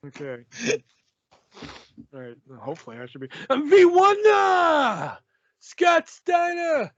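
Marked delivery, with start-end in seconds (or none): 3.5-6.9 put-on high, drawn-out wrestling promo in an odd accent; Matt Hardy. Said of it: "he has an accent for some reason".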